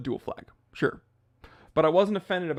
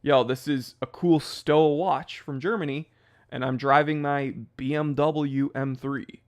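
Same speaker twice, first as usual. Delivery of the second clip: plain American. Retold or imitated. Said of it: "We're American being like".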